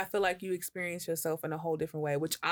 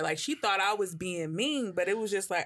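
ordinary talk

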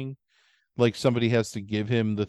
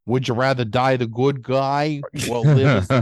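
put-on Boston accent; 6 dB louder than usual. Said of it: "talking like that all the time".

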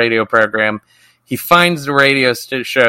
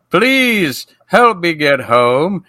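slow, eerie drawn-out plea; creepy ghost plea; 5 semitones higher, much slower than usual.

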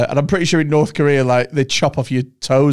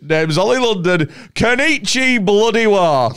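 mock fake Asian accent; 7 semitones higher than usual. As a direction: overdo a put-on Asian accent. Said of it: "you can't be like".

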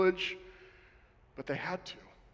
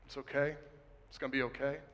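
gentle reassurance; 3 semitones lower, 8 dB quieter, faster than usual. Pretend. Imagined comforting of hiding friend.

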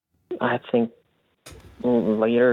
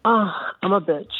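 higher mock girly voice; bitchy girl voice; 6 semitones higher than usual. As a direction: pitch it up like a snippy girl. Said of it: "Hi, bitchy voice".

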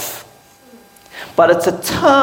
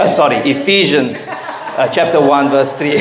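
laughing correction; 2 semitones lower than usual. Real, not acted. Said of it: "Ephesians, Ephesians".

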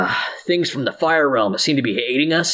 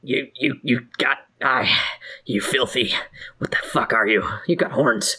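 hushed disbelief; 2 semitones lower than usual. Acted. GM character startled by horns.

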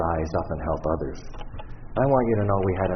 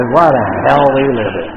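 higher and louder sympathetic repeat; hammed-up sympathy, higher; stronger mock sympathy; 7 semitones higher, 13 dB louder than usual. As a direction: push the sympathy further, higher. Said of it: "But I understand".

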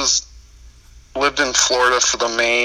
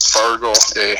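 lightly imitated Minnesotan lilt; hint of a Fargo-style Minnesotan accent. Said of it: "Minnesotan accent".

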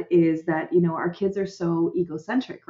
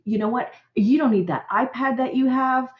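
higher, guilt-tripping parent rant; indignant parent; 5 semitones higher than usual. Retold or imitated. Parent guilt-tripping a child who said I hate you, mock indignant. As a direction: list the sacrifices, pitched up and aggrieved. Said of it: "We go down that road".

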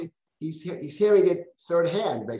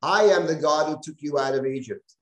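"I" hit hard, louder at the start; emphatic I; 3 dB louder than usual. Shown as a demonstration. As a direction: open emphatically on the word "I". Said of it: "anochi is typically the, uh, emphatic".

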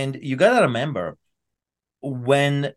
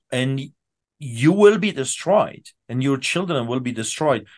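paranoid late night rant; 2 semitones higher than usual. Real, not acted. Preacher warning of destruction.

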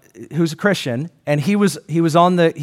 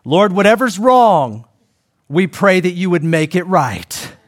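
quoted prayer; slower than usual. Retold or imitated. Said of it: "and this is me".

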